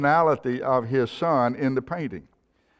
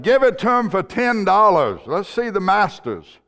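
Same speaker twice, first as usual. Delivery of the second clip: raised, high-pitched heckle; impatient bidder; 6 semitones higher, 3 dB louder than usual. Acted. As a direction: call out to hurry the auction along.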